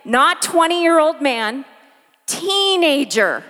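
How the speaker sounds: put-on teenager drawn out slowly and leaned on; slow down and land hard on "teenager"; stress on teenager. Shown as a demonstration. Preacher repeating for the congregation, stressing "teenager". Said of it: "Let me say that again".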